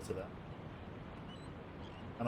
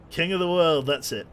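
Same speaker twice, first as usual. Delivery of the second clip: loud playful yell, a bit higher; mock movie cry; 5 semitones higher, 9 dB louder than usual. Captain at the bow quoting the movie, playful loud yell. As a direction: throw out the movie line with a grin. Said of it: "Jack Sparrow style".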